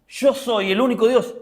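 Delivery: lightly voiced divine declaration; God declaring Himself. God answers those asking which god, proclaiming.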